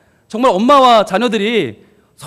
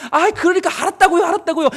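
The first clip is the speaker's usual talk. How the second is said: put-on higher, fed-up child's brush-off; child brushing off mom's nagging, higher and fed up; annoyed child; 6 semitones higher, faster than usual. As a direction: whine it like a kid tired of nagging.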